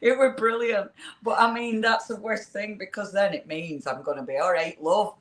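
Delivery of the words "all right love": lightly hammed-up Lancashire; fake Lancashire accent. Joking about being a fake northerner, mock Lancashire accent. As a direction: put on a jokey Lancashire voice, laughing at the end. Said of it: "I'm a fake Lancashire".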